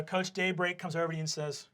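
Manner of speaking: ordinary talk, nothing marked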